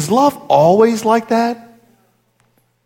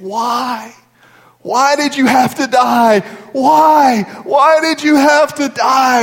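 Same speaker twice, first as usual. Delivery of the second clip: wailing it out, raised pitch; drawn-out mock lament, pitched high; retold weeping; 5 semitones higher, slower than usual. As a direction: act out a grieving man's anguished cry. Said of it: "he's weeping out loud".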